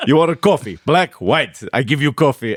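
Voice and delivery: lightly voiced Greek coffee seller; blunt mock Greek vendor; grizzled Greek man. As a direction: lay out the only options in a Greek accent. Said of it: "this grizzled Greek man".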